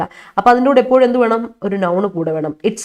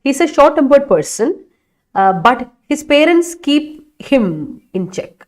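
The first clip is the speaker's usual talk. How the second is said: slow and a bit higher; slow corrected reading; 3 semitones higher, much slower than usual. Shown as a demonstration. Teacher rereading the corrected sentence slowly. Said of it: "അതിലൊന്ന് മാറ്റി പിടിക്കണേ".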